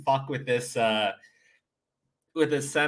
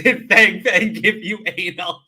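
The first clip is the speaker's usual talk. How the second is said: laughing it out louder through the words; giggling while quoting the clip; 5 semitones higher, 8 dB louder than usual. Real, not acted. Streamer to chat, repeating the clip line while laughing.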